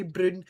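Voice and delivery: "brune" with an oo vowel for brown, Scottish style; Scottish pronunciation. Retold or imitated. Quoting a friend's favourite word, Scottish pronunciation of "brune". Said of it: "say with a Scottish accent".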